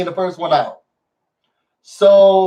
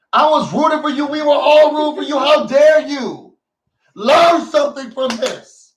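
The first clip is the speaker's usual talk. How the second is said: mock betrayal; 4 semitones higher than usual. Mock disappointed rant.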